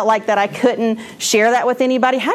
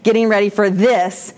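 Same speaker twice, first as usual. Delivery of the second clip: whiny complaint; slower than usual. Retold or imitated. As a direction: moan it like a fed-up new teacher. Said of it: "And I was like".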